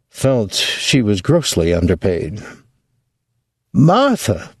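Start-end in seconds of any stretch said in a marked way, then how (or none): 3.7-4.5 snort of scorn. Acted. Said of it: "his mother snorted".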